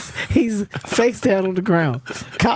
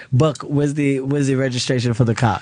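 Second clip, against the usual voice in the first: lightly imitated African accent; a touch of African English, low-pitched; 5 semitones lower than usual. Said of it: "he's got this African accent".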